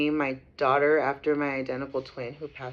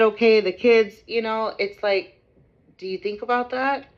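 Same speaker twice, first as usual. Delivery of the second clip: retold heated plea; 4 semitones higher, 3 dB louder than usual. Retold confrontation with the ex.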